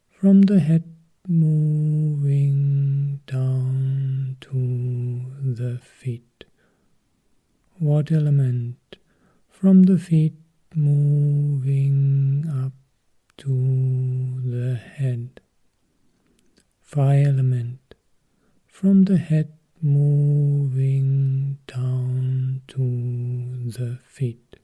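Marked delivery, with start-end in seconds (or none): 0.1-6.4 very slow, each word stretched out; slowly guiding attention from head to feet; drawn-out guidance. Acted. Slow body scan guidance. 9.5-15.4 very slow, each word stretched out; slowly guiding attention from head to feet; drawn-out guidance. Acted. Slow body scan guidance. 18.7-24.6 very slow, each word stretched out; slowly guiding attention from head to feet; drawn-out guidance. Acted. Slow body scan guidance.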